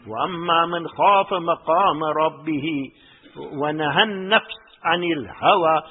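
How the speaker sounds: quick recited Arabic verse; quick Quran recitation. Acted. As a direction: rattle off the verse in a fast recitation.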